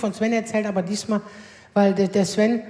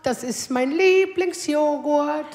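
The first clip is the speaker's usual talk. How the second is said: pleased son; 3 semitones higher, slower than usual. Retold or imitated. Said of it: "freut er sich auch und sagt so".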